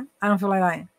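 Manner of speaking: "I don't feel like doing it" squashed into a blur; imitated slurred slang. Son turning down a walk, imitated as slurred mumble. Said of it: "ele falou assim".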